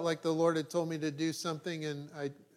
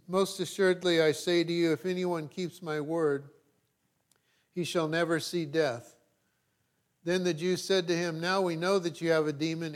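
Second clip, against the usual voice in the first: raised, declaiming Bible reading; scripture reading; 3 dB louder than usual. Acted. Pastor reading John aloud to the church, declaiming. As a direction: proclaim the text to the congregation.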